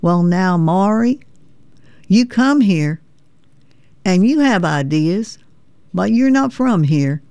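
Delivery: folksy Tennessee veteran teasing a Yankee; lightly voiced Tennessee accent; Tennessee drawl. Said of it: "I used his Tennessee drawl, his Tennessee accent".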